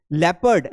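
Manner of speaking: "लेपर्ड" opening on a short "le", no "o"; crisp teacher's model of "लेपर्ड" as LEP-erd; correct pronunciation. Shown as a demonstration. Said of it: "लेपर्ड पढ़ना है".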